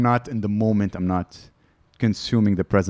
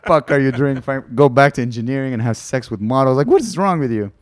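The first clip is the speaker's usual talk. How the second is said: exasperated rant; 5 semitones higher, 6 dB louder than usual. Retold or imitated. Ranting at himself in memory.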